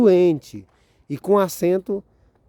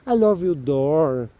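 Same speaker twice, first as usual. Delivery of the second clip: slow English demo; slower than usual. Shown as a demonstration. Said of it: "pra formar a palavra em inglês".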